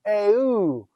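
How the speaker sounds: Eu said as two vowels, eh then oo; separate vowels. Shown as a demonstration. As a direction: Eu with the eta and upsilon kept apart. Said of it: "pronounce them separately".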